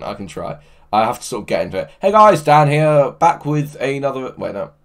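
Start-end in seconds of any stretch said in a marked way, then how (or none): 2.0-4.3 slightly higher YouTuber intro voice, back of the throat; bouncy channel-intro greeting, a bit higher; hint of a peppy gaming YouTuber; DanTDM voice. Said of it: "can you do the Dan T D M voice".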